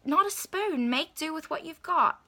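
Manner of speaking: exasperated lecture, acted out; upset scolding. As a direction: tell him off, mildly worked up, stressing key words. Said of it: "kinda got so upset with him".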